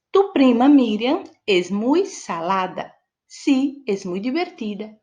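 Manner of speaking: slow Spanish "Tu prima Miriam es muy salada"; Spanish example sentence. Shown as a demonstration. Teacher giving a Spanish example to students, slowly. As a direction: read the example in clear Spanish. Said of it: "Por exemplo".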